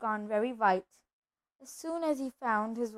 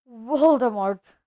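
slow, loud, reluctant utterance; shuddering dread; 7 dB louder, slower than usual. A narrator's reading. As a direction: force out the dreaded name slowly. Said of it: "Hagrid shuddered".

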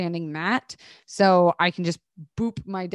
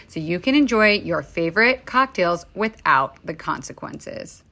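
cheeky whispered aside; 3 dB louder than usual. Acted. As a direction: whisper it like a naughty secret. Playful whisper ending ad.

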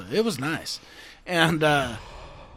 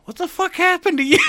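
laughing mock shout; 11 semitones higher than usual. Friends reacting, retold laughing.

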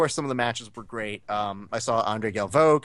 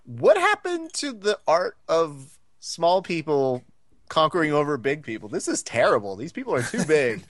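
raised, theatrical dismay; hammed-up protest; mock dismay; 4 semitones higher than usual. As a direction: lament it with comic exaggeration, pitched up. Retold mock outrage at big competitors.

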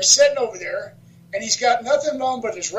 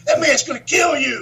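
higher, mock-alarmed retold warning; 4 semitones higher than usual. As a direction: warn him he's in real danger. Alarmed wrestlers warn him in story.

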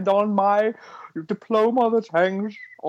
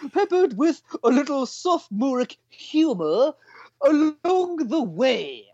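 put-on English accent; 6 semitones higher, slower than usual. Host reading a listener review aloud in an English accent. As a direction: read it in a higher English accent. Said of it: "an English, English accent".

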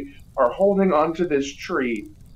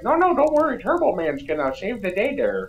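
fanboy cowboy cop. Retold or imitated. Cop boasting about Turbo Man to the lady, hokey cowboy voice. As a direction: brag like a hick sheriff fanboy. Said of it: "so he was like".

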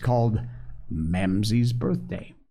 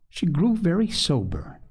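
ordinary delivery

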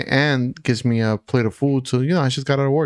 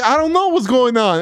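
high-pitched mock panic, a little louder; retold screaming; 10 semitones higher, 4 dB louder than usual. Screaming back at the aunt holding him, mock panic. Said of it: "I'm screaming".

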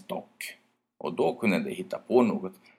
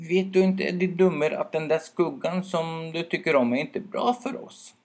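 irritated scolding; 9 semitones higher than usual. Acted. Angry birch brother scolds the owl. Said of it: "skakade irriterat på lövkronan".

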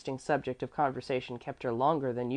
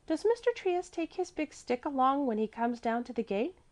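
put-on high, small child voice; wary child; 10 semitones higher than usual. A narrator's reading. Mäzli asks about the stick, high wary voice. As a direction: ask cautiously in a child's high pitch.

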